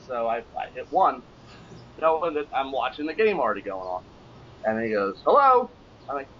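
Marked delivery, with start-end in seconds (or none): 5.3-5.7 tout voice. Retold or imitated. Tout answers phone, voiced.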